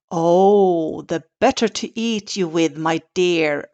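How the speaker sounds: a mild wolf roar. Acted. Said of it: "roared the wolf".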